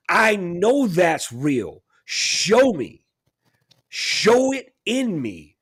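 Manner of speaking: slow, sincere plea; slow earnest prayer. Retold or imitated. Teaching a friend how to ask God, slow earnest prayer. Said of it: "and say".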